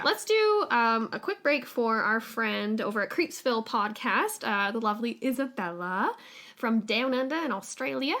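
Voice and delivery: a hammed-up, half-hearted Australian accent; terrible Australian accent. Host introducing the Australian guest's promo, in a bad Australian accent. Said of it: "That's my terrible Australian accent".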